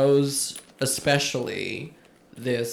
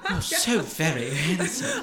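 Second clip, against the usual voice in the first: slow swooning sigh; drawn-out and dreamy; 4 dB quieter, slower than usual. Retold or imitated. Echoing the swoon quote.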